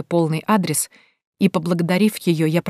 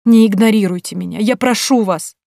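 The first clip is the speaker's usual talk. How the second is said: louder, begging not to be ignored; urgent loud plea; pleading; 4 semitones higher, 5 dB louder than usual. Acted. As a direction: grab her hands and beg. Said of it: "взмолилась я".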